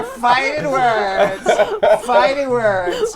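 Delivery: slow, loud, laughing fighting words; laughing, stretched-out exclamation; laughing emphasis. Real, not acted. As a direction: draw it out through laughter.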